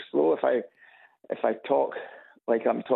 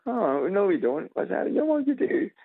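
lightly imitated higher-pitched denial; mock protest; 8 semitones higher than usual. Caller retells people denying they have accents, mock protest. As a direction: put on a high voice for people protesting. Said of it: "then, then they go".

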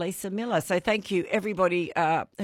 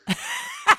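very high, squealing laugh; real high-pitched burst of laughing; burst of laughter. Real, not acted. Host laughs at Thatcher guess.

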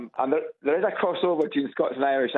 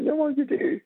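much higher, lightly mocking local voice; mock retort; 13 semitones higher than usual. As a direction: squeak it out as a cheeky comeback.

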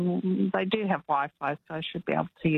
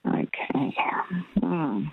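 whispered; much slower than usual. Real, not acted. Caller thinking over answer.

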